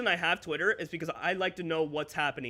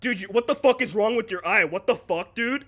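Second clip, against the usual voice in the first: rude commenter; 3 semitones higher, 4 dB louder than usual. Retold or imitated. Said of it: "no, not".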